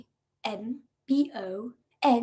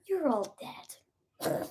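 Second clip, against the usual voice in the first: slow ominous raspy drawl; 3 semitones higher, 8 dB quieter, much slower than usual. Acted. Ominous sign-off threat.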